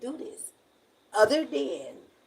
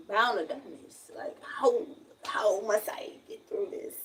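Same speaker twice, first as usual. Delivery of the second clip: mock dramatic lament. Fed-up resident mocking her hopeless fight, hushed mock lament. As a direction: sigh it like a doomed hero, hammed-up. Mock despair about town.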